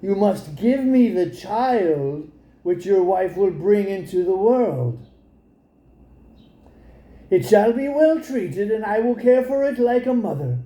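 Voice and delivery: a hint of a witch coaxing sweetly; enchantress. Enchantress bargaining with the frightened man, lightly voiced.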